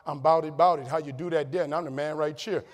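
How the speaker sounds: a loud, playful New Orleans street-talk riff; New Orleans slang. Retold or imitated. Showing the audience his New Orleans talk, playful. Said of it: "laughed at the way I talked".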